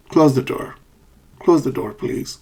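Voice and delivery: modelled request falling through to "please"; falling request intonation. Shown as a demonstration. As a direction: drop the pitch after "Close the door". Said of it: "falling intonation".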